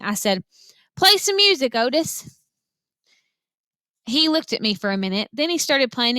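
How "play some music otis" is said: shouted request. A narrator's reading. Girl shouting to Otis over the barking and yelling. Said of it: "I shouted over Winn-Dixie barking".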